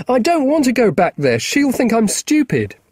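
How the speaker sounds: put-on high, frightened boy's voice; a scared kid blurting it all out; young boy Marcus. Boy Marcus telling Will about Ally, high and scared.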